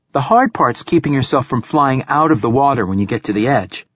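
lightly voiced young girl; a hint of a bright young girl. Young girl Aeneas speaks.

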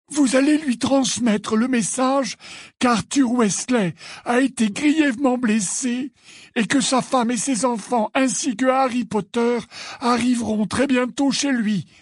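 measured, high-pitched rebuttal; Dumbledore, firm. A narrator's reading.

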